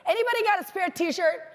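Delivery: high lightly voiced plea; imitating the star. Star turning to the guy beside her: high casual ask. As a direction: casually beg a stranger for a shirt. Star asks stranger for shirt.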